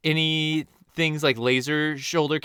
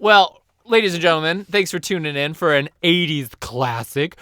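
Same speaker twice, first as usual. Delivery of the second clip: louder show host opener; announcer voice; 3 dB louder than usual. Acted. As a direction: announce it to the crowd.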